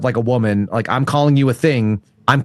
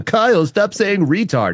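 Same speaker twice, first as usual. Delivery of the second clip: mock scolding; 8 semitones higher, slower than usual. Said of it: "I had a couple of people".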